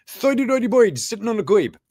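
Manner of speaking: high, mangled New York twang; New York accent. Acted. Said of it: "Apologies for that terrible accent there ... that's me doing New York".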